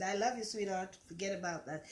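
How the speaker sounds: soft, soothing end to an argument; calming I love you. Shown as a demonstration. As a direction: defuse the quarrel gently. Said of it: "switch all the heated thing and said".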